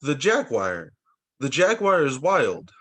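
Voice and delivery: put-on bright read-aloud for a child; story time reading. Reading rainforest animals to Noah, storybook voice. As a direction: read it like a picture book.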